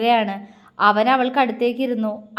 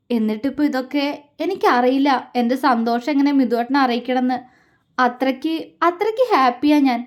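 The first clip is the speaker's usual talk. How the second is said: voice breaking. Acted. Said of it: "അവൾ ഇടർച്ചയോടെ പറഞ്ഞു".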